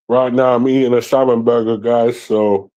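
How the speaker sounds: talking with a mouthful; mouth full. Real, not acted. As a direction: speak around a bite of burger. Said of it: "why I'm sounding like that".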